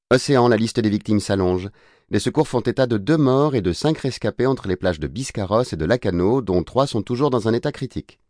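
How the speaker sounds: lilting newsreader delivery; radio news read. Acted. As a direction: read it as a regional news bulletin. Bulletin radio dans le récit. (ton de journal radio)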